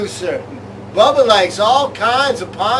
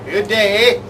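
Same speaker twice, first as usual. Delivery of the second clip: put-on light Bob McKenzie Canadian accent, eh. Co-host doing Canadian comedy bit, light Canadian accent. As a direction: play a Canadian hoser, lightly. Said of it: "The Canadian element in the show".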